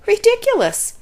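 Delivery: high, loud mocking duck cry; quacking duck. A narrator's reading. Duck scoffing at the tortoise, high and loud. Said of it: "quacked the duck".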